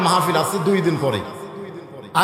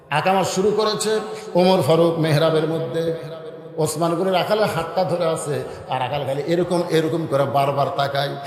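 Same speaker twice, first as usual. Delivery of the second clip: sermon storytelling; 2 semitones lower than usual. Acted. Preacher tells of the prayer call starting, rising sermon storytelling. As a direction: build suspense for the congregation.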